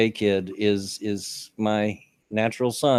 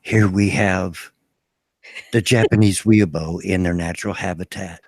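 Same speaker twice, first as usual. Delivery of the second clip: nature documentary; 4 semitones lower than usual. Pretend. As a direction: narrate it like a hushed nature show. Mock wildlife narration of a weeb.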